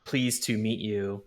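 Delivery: slow, stilted greeting in a bad accent; bad broken-Dwarvish accent. Player politely greeting a dwarven woman, bad broken-Dwarvish accent. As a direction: fake a clumsy Dwarvish accent. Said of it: "trying to put on a bad accent".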